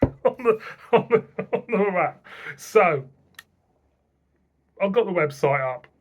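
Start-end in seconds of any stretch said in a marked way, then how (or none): 0.0-2.3 laughing through the words; pitched up, laughing as he talks. Real, not acted. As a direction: giggle while saying it. Laughs at the letters.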